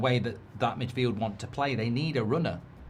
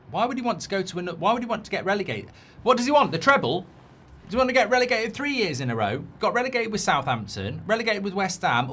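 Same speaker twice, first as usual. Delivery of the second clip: rising disbelief, pitch climbing; incredulous rant; 6 semitones higher, faster than usual. Real, not acted. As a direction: scoff at the idea, voice going up. Mocking outrage at Spurs rumour.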